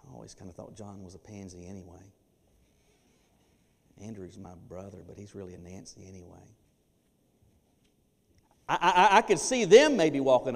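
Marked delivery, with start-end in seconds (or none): 0.0-6.5 snide bravado. Acted. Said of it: "snide bravado".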